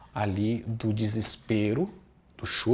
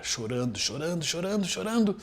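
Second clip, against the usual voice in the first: each chorando climbing higher, ending on a high peak; building repetition; 5 semitones higher than usual. Real, not acted. Teaching parents, stressing how the baby cries on, rising emphasis. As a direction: pile the chorando words up, rising each time.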